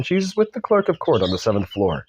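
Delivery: lilting, put-on British accent. British lawyer giving Stubbs directions, put-on accent. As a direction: give directions in a polite British voice. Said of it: "said the British man".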